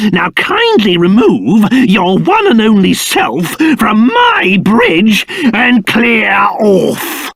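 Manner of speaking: slow, pompous, rising to a shout; angry order. Acted. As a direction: drive him off the bridge. King orders man off bridge.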